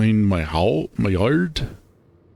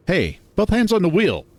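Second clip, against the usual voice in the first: alarmed shout; 10 semitones higher than usual. Acted. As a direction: yell it in a panic, sharply. Friend drives one-handed, alarmed.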